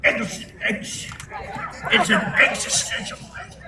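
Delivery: halting, stumbling mock Biden; imitating Biden. Mocking Biden's halting speech, a hint of imitation. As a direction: trip over the word existential, laughing. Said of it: "Biden had always used to say".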